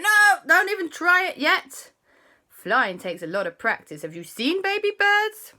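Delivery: high, loud no with slowed advice; urgent warning. Acted. The boys telling Andy not to try flying, high and urgent. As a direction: stop him fast, then explain.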